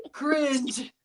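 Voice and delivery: whispered cringe reaction; hushed, voiceless show of disgust; mock disgust. Acting out her disgusted reaction.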